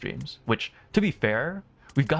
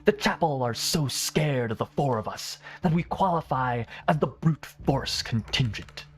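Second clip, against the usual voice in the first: Dahl's voice. Acted. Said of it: "a much better job with Dahl's voice".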